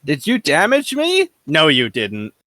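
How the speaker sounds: mocking, dismissive taunt, pitch rising high; smug taunt. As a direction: sneer it like an unbeatable bully. Card voiced taunting weaker ships.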